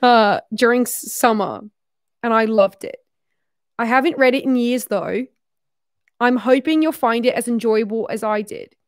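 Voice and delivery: wobbly imitation Australian accent. Shown as a demonstration. Reading a note about a summer book, shaky attempt at Australian accent. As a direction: keep up an amateur Australian accent as you read. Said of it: "I'm so bad at this accent".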